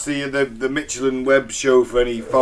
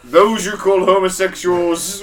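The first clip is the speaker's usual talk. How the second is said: loud, slow alien overlord decree; booming demon lord; 6 dB louder, slower than usual. Pretend. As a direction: decree it grandly and slowly. Continuing the Ashtar voice.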